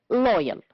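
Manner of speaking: loyal, stressed on LOY, closing fall; stress on first syllable. Shown as a demonstration. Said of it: "stressed on the first syllable".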